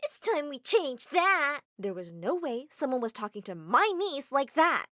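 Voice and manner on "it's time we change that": put-on high, loud child's voice, slow and shaky; little girl shouting back at bullies; defiant little girl. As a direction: stand up to the bullies as a brave kid. Child defends herself.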